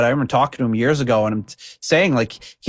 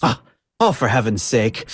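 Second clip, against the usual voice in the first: exasperated grandma. Retold or imitated. Grandson imitating grandma at a billboard, mock exasperation. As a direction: imitate a grandma fussing over nothing. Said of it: "And she'd go".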